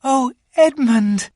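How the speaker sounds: high, joyful slow call; Lucy spotting her brother, joyful; glad cry. A narrator's reading. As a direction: greet him with delight. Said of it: "she cried".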